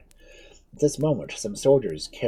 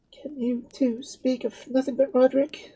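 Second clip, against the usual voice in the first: mild reproach. Acted. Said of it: "somewhat reproachfully".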